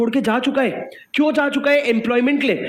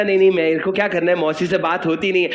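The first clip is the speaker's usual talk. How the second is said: quick mock brush-off, dropping lower at the end; dismissive refusal; 4 semitones lower than usual. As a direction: play someone hurriedly making excuses. Acting reluctant nephew making excuses. (टालते हुए, जल्दी में इनकार)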